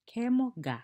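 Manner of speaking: high, loud call, "Ke mo ga"; lively teacher calling to students; call-and-response teacher call. Shown as a demonstration. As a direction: call out the prompt to the class. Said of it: "game of you say, I say".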